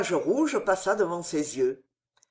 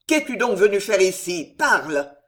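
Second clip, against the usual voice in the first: put-on louder, gruff old captain's demand; growled demand; 5 dB louder than usual. Old captain demanding answers from his enemy's son, growling. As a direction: bark the order, fist on the table. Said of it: "gronda le vieux capitaine".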